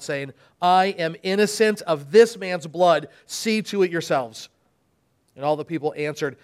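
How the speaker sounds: dramatic Bible reading with voiced crowds; scripture reading. Pastor reads the Passion to the church, dramatic reading. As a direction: read the Passion aloud to the congregation.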